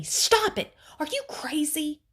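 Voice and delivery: high, loud angry scream. A narrator's reading. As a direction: yell it sharply at a child out of control. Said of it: "She screamed at me".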